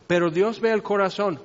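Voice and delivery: tossed off casually, no weight at all; dicho a la ligera. Retold or imitated. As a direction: say it like a cliché you don't mean. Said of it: "muy, muy a lo ligero". (a la ligera, como frase hecha sin peso)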